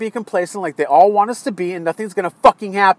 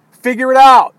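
loud, higher, exasperated command; angry order; 4 semitones higher, 7 dB louder than usual. Real, not acted. Fed-up voter ordering the president, loud and angry. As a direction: throw it out as a forceful demand.

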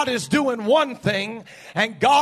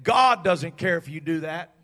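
much softer, lower, sweet-talking coax; coaxing false prophetess; 5 semitones lower, 10 dB quieter than usual. Acted. The false woman prophet coaxing Noah to relax, soft and lulling. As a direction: lull him like a soothing temptress. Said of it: "there comes this woman along that says".

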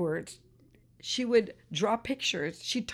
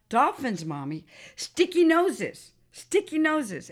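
acting out an eager daughter, louder on key words; excited child's insistence; 5 semitones higher, 4 dB louder, slower than usual. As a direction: lightly mimic a child urging her mother to understand.

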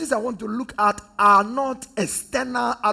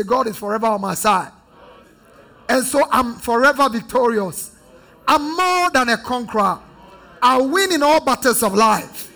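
louder, rising affirmation of victory; loud congregation declaration; 5 dB louder than usual. Real, not acted. Congregation answering the preacher in a loud declaration of victory. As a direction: proclaim victory back to the pulpit. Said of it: "Somebody say".

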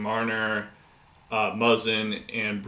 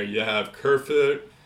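Boston accent; 3 semitones higher than usual. Real, not acted. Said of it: "I think I said that in a Boston accent".

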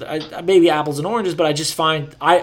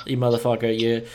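relaxed Boston accent. Shown as a demonstration. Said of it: "it's much more lazy".

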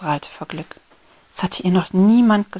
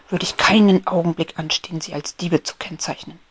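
annoyed outburst. Acted. Beetle Peppy rants indignantly about the thieving ants. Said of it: "Ärgerlich fuhr er heraus".

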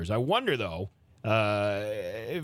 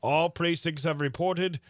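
put-on old-timey voice; 4 semitones higher than usual. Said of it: "special old-timey voice".

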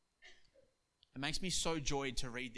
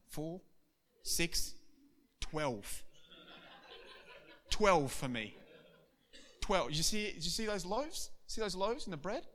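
boastful; 5 semitones higher than usual. Acted. Disciples bragging to each other about miracles. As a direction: brag about miracles with a laugh.

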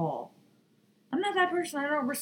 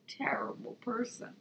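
whispered aside; 4 semitones higher, 8 dB quieter than usual. Real, not acted. Vlogger whispers a jab about Jake Paul, hushed whisper. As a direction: drop to a breathy whisper for a sly jab.

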